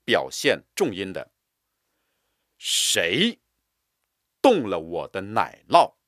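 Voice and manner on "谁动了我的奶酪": 谁 set apart and firm; stress on 谁. Shown as a demonstration. Teacher drilling, stress on 谁. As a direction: hit 谁 hard. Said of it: "加重力度和音强".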